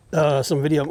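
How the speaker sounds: speaking through hiccups. Real, not acted. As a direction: hiccup interrupts the words. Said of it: "ooh, excuse me, I got the hiccups".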